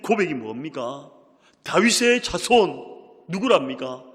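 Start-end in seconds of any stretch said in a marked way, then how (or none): 1.6-2.8 느리고 높게, 크게 외치기; 한 마디씩 힘껏 끌어 외치듯; 부르짖음. Retold or imitated. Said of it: "소리질러 이르되". (소리 높여 부르짖는 목소리)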